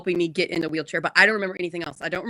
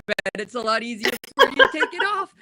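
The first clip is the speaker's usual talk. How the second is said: nurse's joke; 3 semitones higher, 4 dB louder than usual. Retold or imitated. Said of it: "And the nurse goes".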